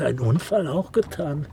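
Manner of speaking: amused, disbelieving shriek of laughter; laughing disbelief. Acted. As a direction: burst out laughing at the idea. Incredulous laughter at suggestion.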